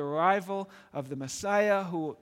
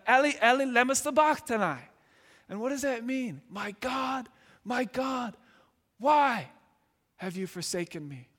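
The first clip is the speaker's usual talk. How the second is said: anguished cry; 4 semitones higher than usual. Retold or imitated. Jesus on the cross crying out to God, anguished. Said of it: "He cried out".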